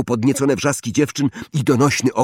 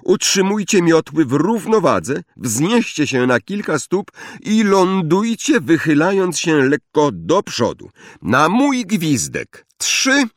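higher-pitched drill instructions to a class; commanding flying teacher; 7 semitones higher than usual. A narrator's reading. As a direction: call out orders to pupils, pitched up.

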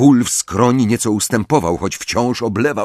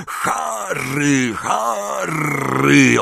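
a far-off, raised call of a name, higher; distant urgent call; 6 semitones higher, much slower than usual. Acted. Ron calling Harry out of a nightmare, distant and urgent. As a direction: call him as if from far away.

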